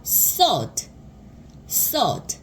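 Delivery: "sod" with the Korean eo vowel, between uh and aw; uh-aw vowel sound. Shown as a demonstration. Teacher demonstrates the next vowel, "sod" said with an eo sound. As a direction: round "sod" slightly toward sawd. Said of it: "어 소리를 내서".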